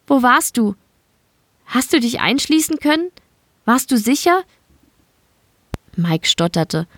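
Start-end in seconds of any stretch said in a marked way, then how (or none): 0.1-4.4 put-on higher, mildly reproachful young woman. A narrator's reading. Elina reproaching her colleague, mild higher reproach. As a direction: scold him gently, voice lifted. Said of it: "mit vorwurfsvoll gehobenem Finger".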